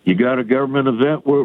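usual speaking voice

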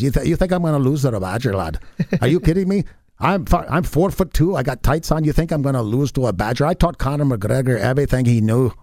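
put-on a light stage-Irish accent, cocky; Irish leprechaun. Leprechaun boasting he won't lose to a Badger, mild Irish accent. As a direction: put on a hint of an Irish brogue. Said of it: "The Irish leprechaun says".

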